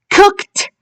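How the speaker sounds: "Cooked" high, ending in a released t; teacher's high, careful "Cooked", final t audible; final t sound. Shown as a demonstration. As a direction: say "Cooked" with ed as a crisp t. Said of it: "This is the t".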